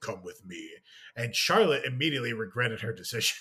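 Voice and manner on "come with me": heavy, deep, dropped-down sci-fi villain voice. Retelling meeting a costumed character at Disney: Darth Vader voice. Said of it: "they got the fucking James Earl Jones voice recorded on there".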